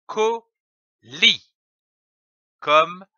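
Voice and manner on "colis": colis said higher; word demo. Shown as a demonstration. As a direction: lift the joined word colis. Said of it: "L'association de ces deux syllabes donne".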